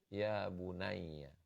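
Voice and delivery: soft tender call. Shown as a demonstration. Preacher showing the gentle Arabic call a father uses, slow and soft. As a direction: draw out each word softly. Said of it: "dipakai yang halus".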